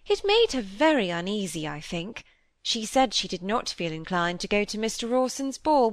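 a gently voiced vain stepmother; fussy stepmother. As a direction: chatter fondly, full of herself. Mrs Gibson voiced by reader.

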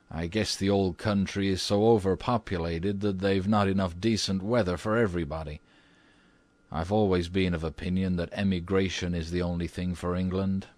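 lightly voiced, unruffled American gentleman; a hint of composed American statesman; calm American minister. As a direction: opine evenly, without any alarm. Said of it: "said the American minister calmly".

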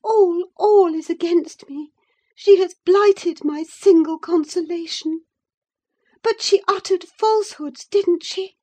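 high, loud tearful outburst; sobbing lament. Acted. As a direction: lament passionately as if in tears. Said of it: "she sobbed".

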